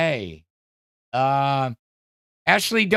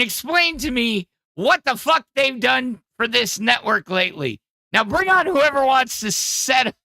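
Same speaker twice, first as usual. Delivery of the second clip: higher, mock-tough Welsh accent challenge; attempted Welsh accent; 7 semitones higher than usual. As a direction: dare everyone to step up, in a rough Welsh accent. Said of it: "trying to do the voice of Nightmare".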